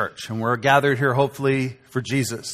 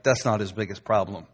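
quiet Jesus reply; 6 semitones lower, 7 dB quieter than usual. Retold or imitated. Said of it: "And Jesus is like".

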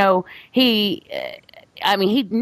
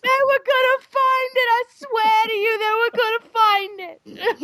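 laughing quote. Acted. Quoting Henry while laughing.

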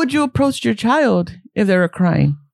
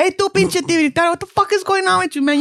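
mock confrontation; 6 semitones higher than usual. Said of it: "not being like".

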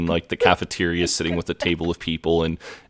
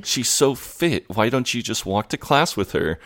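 higher-pitched, exasperated disbelief; mock apoplectic; 5 semitones higher than usual. Jay berating Simon for turning the girl down, mock exasperated. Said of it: "like, apoplectic. He's like".

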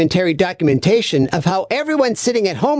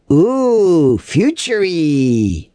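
mock awe; 5 semitones lower, 3 dB louder, much slower than usual. Mock awe at sci-fi future.

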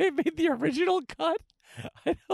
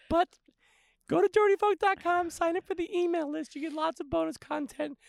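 a higher put-on voice he insists is easy; odd put-on voice; 3 semitones higher than usual. Podcast host plugging the mailing list in a put-on voice. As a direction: pitch it up and keep chatting as if it's normal. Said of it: "I can talk like this".

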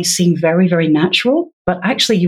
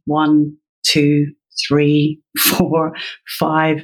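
slow counting; 3 semitones lower, much slower than usual. Shown as a demonstration. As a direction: count the seconds out slowly. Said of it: "slowly counting out seconds".

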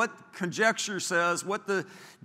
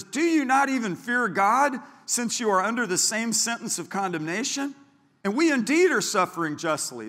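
rebuke; 6 semitones higher, 3 dB louder than usual. Retold or imitated. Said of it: "answered and rebuked him".

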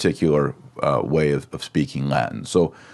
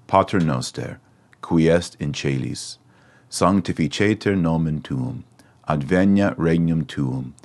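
measured Latin recitation with pauses between phrases; recited prayer. Shown as a demonstration. Teacher praying the Pater Noster through for Latin students, recited prayer. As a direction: pray it through at an even cadence. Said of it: "to pray the prayer all together goes like this".

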